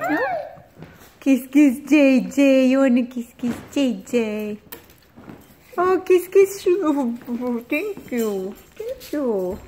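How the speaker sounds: high cooing pet voice. Real, not acted. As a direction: sweet-talk the pet. Asking the pets for kisses.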